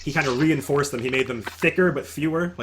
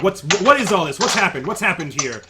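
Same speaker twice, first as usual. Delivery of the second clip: raised, higher demanding shout; shouting guard captain; 5 semitones higher, 8 dB louder than usual. Acted. Captain shouting at the market crowd, loud. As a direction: bark the question at the crowd. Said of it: "he's shouting from the front of the line".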